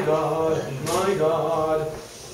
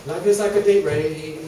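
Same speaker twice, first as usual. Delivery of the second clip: a lightly preached comic prayer; mock sermon; 3 semitones higher than usual. Comic preacher praying to Mother Mary, lightly preached. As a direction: pray over the flock, half in jest.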